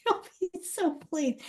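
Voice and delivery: a rueful chuckle on the line; ironic laughing repeat. Shown as a demonstration. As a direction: repeat it wryly through a laugh. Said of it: "Oh, he'll be so pleased".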